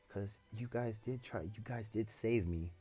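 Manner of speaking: halting stuttered words; stuttering. Real, not acted. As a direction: stumble over the words. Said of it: "I'm stuttering over my words".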